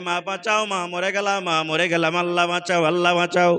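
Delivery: ordinary delivery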